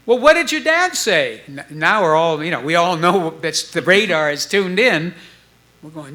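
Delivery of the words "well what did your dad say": high, louder eager question; eager asking. Retold or imitated. Bandmates pressing Stu about his dad, eager and high. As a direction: press him, can't wait to know.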